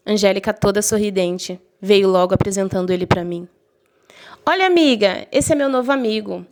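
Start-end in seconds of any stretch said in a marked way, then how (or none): 4.5-6.5 higher, chirpy imitation of a sweet friend; bubbly friend voice. Friend introducing Rodrigo, in a high bubbly imitation. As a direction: play the falsely sweet friend introducing her new guy. Voicing cheerful friend Angélica.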